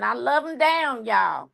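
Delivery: put-on folksy Southern-accented declaration. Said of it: "put on my Southern accent".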